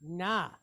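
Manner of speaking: "Na" with a long "ah" vowel; long A demo. Shown as a demonstration. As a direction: sound out "Na" as N plus a held "ah". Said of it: "How would we pronounce that".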